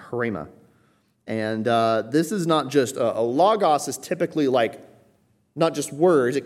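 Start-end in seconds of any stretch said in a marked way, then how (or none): 0.1-0.5 "hrema" with an audible H before the R; H sounded at start. Shown as a demonstration. Preacher teaching a Greek word, "hrema" with its initial H sounded. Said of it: "the H on the beginning".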